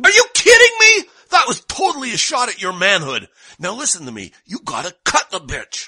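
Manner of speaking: high shouting sandwich voice; a squeaky bully egging him on; angry meat voice. Acted. Meat urges violence.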